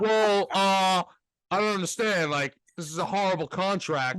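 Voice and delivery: mock a spoiled Yankee fan, a hint of an Italian accent; a light parody of a fan complaining about cheap owners; stereotypical Yankee fan. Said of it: "Why are you doing an Italian accent?".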